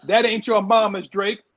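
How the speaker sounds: punchy promo line, stress on "Drake"; catchphrase delivery. Acted. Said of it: "I'm gonna do this just for you".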